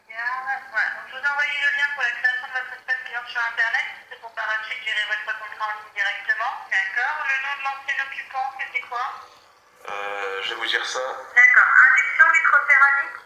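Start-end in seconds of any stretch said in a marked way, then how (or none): 0.1-9.0 tinny phone call voice; over the phone. Real, not acted. Phone agent speaking. 11.0-13.2 tinny phone call voice; over the phone. Real, not acted. Phone agent speaking.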